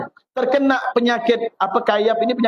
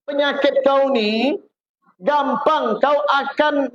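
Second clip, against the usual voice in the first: slow kiai verdict; 4 semitones higher, slower than usual. Retold or imitated. Kiai gives stern verdict.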